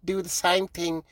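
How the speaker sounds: lightly put-on voice of a sports hero consoling a youngster; John Robbie. Hero consoles comic who died onstage, lightly imitated reassurance. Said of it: "John Robbie came to me, he's like".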